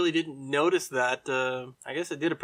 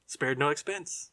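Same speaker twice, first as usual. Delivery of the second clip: 1 quoting Kiley; 3 dB quieter, slower than usual. Retold or imitated. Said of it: "the voice you are hearing is Mister Richard Kiley".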